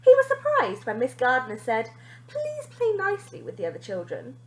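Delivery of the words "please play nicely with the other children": teacher voice. A narrator's reading. Teacher gently correcting.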